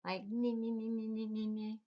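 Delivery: light repeated nee like a nibbling rabbit; nibbling sound. Shown as a demonstration. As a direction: mimic little nibbles. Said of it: "kinda nibble on it".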